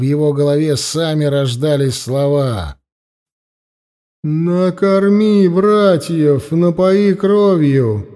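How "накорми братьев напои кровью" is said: loud, slow, commanding otherworldly voice; goddess voice. Acted. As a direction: boom out a divine command, slowly. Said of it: "раздался голос богини". (властный голос богини)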